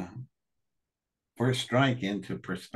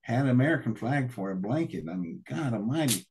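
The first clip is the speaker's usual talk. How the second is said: heated retold outburst; 5 semitones higher than usual. Retelling his angry outburst.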